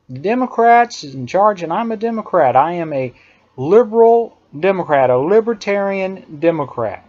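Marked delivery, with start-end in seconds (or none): 3.6-7.0 LIBERAL punched, then emphasis on LIBERTARIAN; stress on liberal and libertarian. Real, not acted. Declaring own politics, stress on "liberal" and "libertarian". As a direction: lean on "liberal" and "libertarian", not on "Democrat". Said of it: "with emphasis on the word liberal and libertarian".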